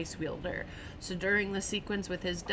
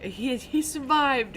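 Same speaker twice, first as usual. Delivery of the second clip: higher, drawn-out mock elation; retold excitement; 6 semitones higher, 4 dB louder, slower than usual. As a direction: act out someone going crazy with relief. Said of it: "just going crazy about how he survived".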